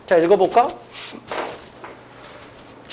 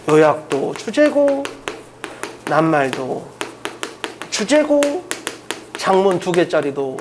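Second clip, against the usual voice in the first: slow drilled list; 4 dB quieter, slower than usual. Real, not acted. Teacher drills students that every question type is theme, slow and deliberate. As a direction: draw out each item, pausing between.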